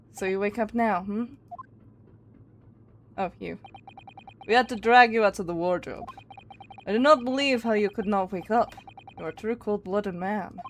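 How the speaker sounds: clumsy, bad, put-on Russian accent. Voicing a character addressing a man dragged out of a wardrobe, bad Russian accent. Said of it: "Don't mind how bad my accent probably is".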